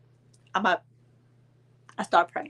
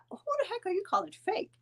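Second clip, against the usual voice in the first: higher, confronting question; mock indignant challenge; 12 semitones higher, 7 dB quieter than usual. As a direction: challenge her outright. Confronting on phone.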